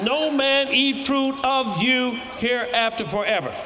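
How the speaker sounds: triumphant declaration with a laugh; bold spoken command. Shown as a demonstration. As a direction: speak it out like a command to the tree. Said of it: "Just speak nine words to it".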